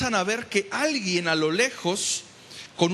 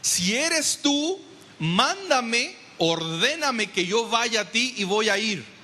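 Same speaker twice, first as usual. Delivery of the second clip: Peter's plea; 4 semitones higher, slower than usual. Retold or imitated. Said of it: "Y le dice".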